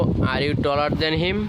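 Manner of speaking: very slow, rising on "question"; slow model question. Shown as a demonstration. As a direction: ask it word by word for learners. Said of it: "তাহলে বলবো".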